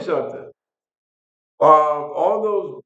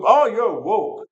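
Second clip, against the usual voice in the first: mocking Republicans; 6 semitones higher, slower than usual. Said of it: "anytime you disagree with them".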